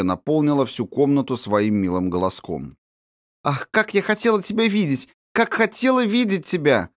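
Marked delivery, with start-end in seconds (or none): 3.4-6.9 put-on high, eager girlish chatter, words tumbling out; a little princess gushing over her friend; excited chatter. A narrator's reading. Princess gushing to Sibirochka, high and excited. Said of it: "трещала княжна".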